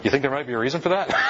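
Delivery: wry laughing retort. Retold or imitated. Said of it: "I sort of said to him".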